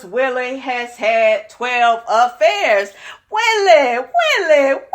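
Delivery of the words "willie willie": calling his name, pitched up and louder; drawn-out mock wail of his name; mock lament. Mock lament over twelve affairs.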